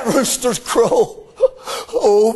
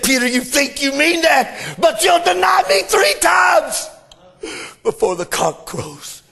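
preached quote. Acted.

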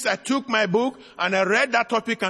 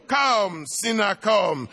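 pleading altar call. Acted. Preacher gently inviting sinners to come tonight, pleading. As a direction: ease the plea down to a gentle invitation.

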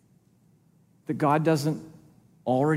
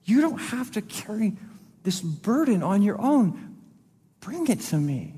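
tender voice of God; 3 semitones higher, 4 dB quieter than usual. Acted. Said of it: "It's God going".

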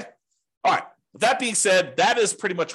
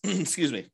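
clears throat; short throat clear; 3 semitones higher than usual. Real, not acted. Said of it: "clear my throat one second".

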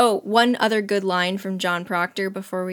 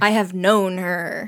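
slow, weighty mock confession; hammed-up solemn declaration; dramatic confession; 2 semitones lower, slower than usual. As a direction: draw out each word of the admission. Co-host re-performs the confession dramatically.

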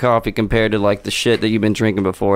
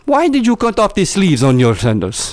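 mocking taunt; 7 semitones higher than usual. Roast taunt voice.

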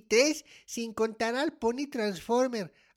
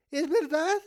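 anxious question, near usual volume; dawning disbelief; 3 semitones higher than usual. Acted. Child asks dad if the gift cut is real, dawning disbelief. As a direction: ask it with dawning dread.

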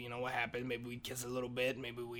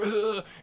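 loud, raised choking roar; raging growl; 7 semitones higher, 7 dB louder than usual. Retold or imitated. Tito raging at his wife, choked growl. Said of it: "his rage".

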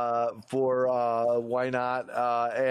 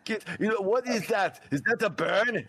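usual speaking voice

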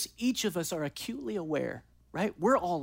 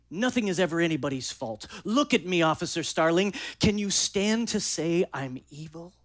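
Hannibal Lecter. Acted. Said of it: "And Hannibal says this".

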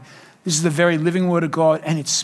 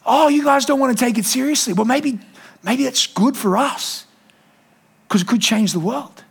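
much higher, slow and insistent; excited high quote; 6 semitones higher than usual. Retold or imitated. Pastor paraphrasing Gandhi, high and slowly insistent. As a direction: push it up high, slow and urgent. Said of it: "And he goes".

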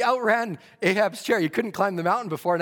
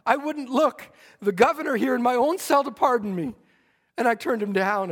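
anguished cry; 5 semitones higher than usual. Retold or imitated. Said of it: "He screamed and he cried".

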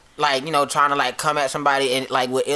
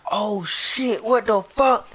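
half-whispered, higher-pitched dread; hushed mock panic; 5 semitones higher, much slower than usual. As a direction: act out being nearly caught. Retold panic as dad arrives.

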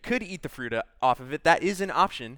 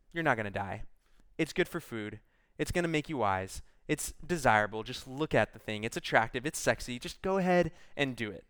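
low, softer, coaxing tempter's voice; tempting serpent; 3 semitones lower, 5 dB quieter than usual. Retold or imitated. Serpent coaxing the woman to eat, low and soft. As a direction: lure her in quietly, like a snake.

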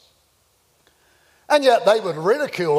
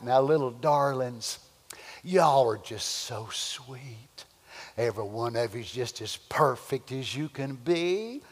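a hint of a syrupy, soothing preacher; soft, honeyed coaxing of the flock; mock sweet-talking preacher; 3 semitones lower, 5 dB quieter than usual. Preacher mocking a soft preacher, lightly syrupy. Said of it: "That's the kind of preacher they want".

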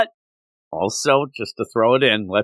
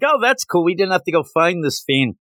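higher-pitched easygoing retold reaction; upbeat acceptance; 6 semitones higher than usual. Podcaster voicing an optimistic hero, upbeat. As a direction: act pleased to be spared the trouble.

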